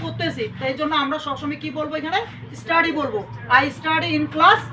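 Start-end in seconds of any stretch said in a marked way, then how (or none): 3.6-4.6 slow dictation. Shown as a demonstration. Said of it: "teacher dictating a model sentence".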